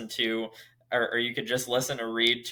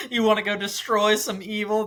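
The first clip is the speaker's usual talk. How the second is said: much higher, eager talking-sword voice; Nightblood's voice; 10 semitones higher, 3 dB louder than usual. Retold or imitated. Fan retelling the sword's line to Szeth in a high eager voice. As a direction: pitch it up like a sword itching for a fight. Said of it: "and then he says".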